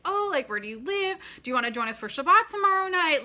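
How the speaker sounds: loud showy welcome; talking really loud. Retold or imitated. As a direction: make sure the man nearby hears. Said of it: "I started talking really loud".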